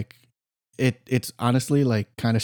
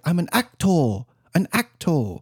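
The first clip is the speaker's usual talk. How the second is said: Ben Kingsley impression; 4 semitones higher than usual. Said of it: "the Ben Kingsley one".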